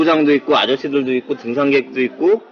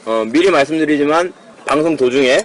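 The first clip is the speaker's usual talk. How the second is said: ordinary talk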